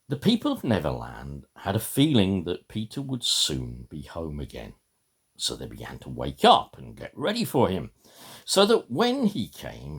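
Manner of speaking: put-on reading a children's story aloud; story narration. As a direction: tell it like a bedtime tale to the congregation. Reads Peter Pan aloud.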